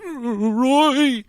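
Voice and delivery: high, loud urgent name; urgent answer. Retold or imitated. Answering the roommate's call, urgently relieved. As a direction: grab the phone and say his name fast. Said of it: "I answer, like".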